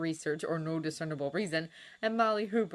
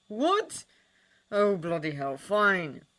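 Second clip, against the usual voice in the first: sharp high what then a loud resigned fine; exasperated give-in; 3 semitones higher, 7 dB louder, much slower than usual. A narrator's reading. Sirius giving in to Sherlock on the phone, exasperated. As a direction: snap then cave in with disgust.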